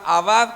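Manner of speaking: "abad" with its second a stressed; stress on the final A. Shown as a demonstration. Preacher repeating the Hebrew word for service, "abad" stressed on final A. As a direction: lean firmly on the last A in "abad". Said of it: "con acento en la A".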